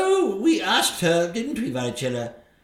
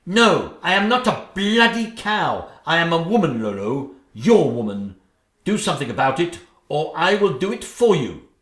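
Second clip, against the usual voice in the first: louder, higher indignant tirade; furious ultimatum; 3 semitones higher, 5 dB louder than usual. Acted. Stepmother demanding the king deal with Cinderella, furious. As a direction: put your foot down hard.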